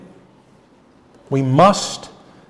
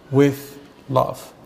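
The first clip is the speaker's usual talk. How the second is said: tender; 4 semitones lower, 5 dB quieter than usual. Real, not acted. Praying to speak with love.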